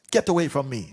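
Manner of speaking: high, loud furious dismissal; angry shout. Acted. Angry king sends his counselor away, angry shout. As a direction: drive him off with a high shout. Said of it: "He was very angry".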